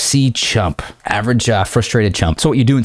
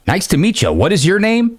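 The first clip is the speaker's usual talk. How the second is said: high, over-polite mock greeting; cringe introduction; 10 semitones higher than usual. Shown as a demonstration. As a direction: overeager hello to a stranger. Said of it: "No, cringe".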